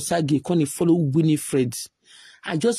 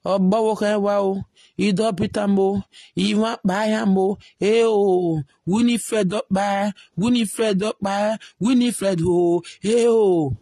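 mock gossip wail. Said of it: "they start".

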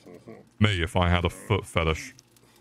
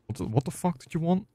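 high shriek; 10 semitones higher, 3 dB quieter, faster than usual. Acted. Sudden high angry outburst.

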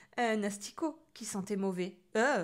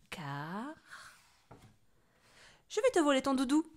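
gloating witch threat, loud at the end; menacing witch; 2 semitones higher, 4 dB louder than usual. Acted. Witch threatening the sleeping boy, menacing. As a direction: savour each threat, then bellow.

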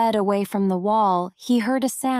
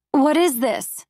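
higher, mildly dismayed exclamation; exclaimed cry; 5 semitones higher than usual. A narrator's reading. Prisoner meeting an obstacle in the wall, understated cry. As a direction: cry it out with restraint. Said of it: "he cried".

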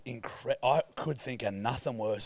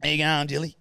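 higher-pitched teasing imitation of the co-host; mock chat with mum; 5 semitones higher, 4 dB louder than usual. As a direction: mimic a friend's cheery greeting to mum. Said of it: "you sat down with your mum and you went".

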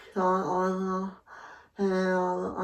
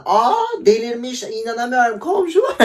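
fake shocked outcry; 7 semitones higher, 4 dB louder than usual. Shouting down to the neighbours, hammed-up shock. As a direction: play the innocent, scandalised resident. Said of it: "şizofrenliğimi o kadar iyi oynuyordum".

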